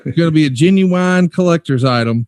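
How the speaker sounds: "genuine" drawn out in a mock Southern drawl. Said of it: "And then you do a Southern drawl".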